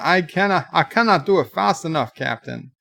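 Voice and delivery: lightly put-on Scottish accent. Engineer pleading to the captain in a mock Scottish accent. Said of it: "Engineers are born Scottish".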